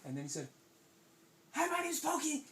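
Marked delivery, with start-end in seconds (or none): 1.5-2.4 sudden high, loud hello; loud, high pop-up introduction; startling greeting. Acted. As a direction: burst out to surprise them. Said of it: "And he surprised them".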